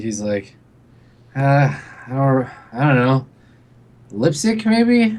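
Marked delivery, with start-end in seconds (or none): 1.3-5.2 put-on drunk, totally out of it. Voicing a staggering drunk character at a door: drunk, totally out of it. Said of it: "he looks s-, like, totally out of it".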